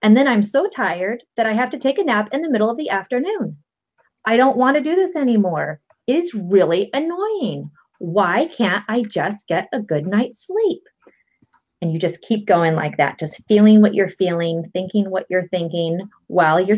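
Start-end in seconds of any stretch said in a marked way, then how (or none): 0.0-10.8 frustrated tapping demo. Shown as a demonstration. Coach demonstrates tapping round, weary and frustrated. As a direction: vent it tiredly like a sleepless adult. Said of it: "it would sound something like".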